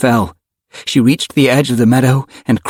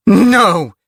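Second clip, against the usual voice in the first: high, angry refusal; raging yell; 10 semitones higher than usual. A narrator's reading. Rachel stops Axe, enraged. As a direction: yell it in rage, pitched up. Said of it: "yelled in a blinding rage".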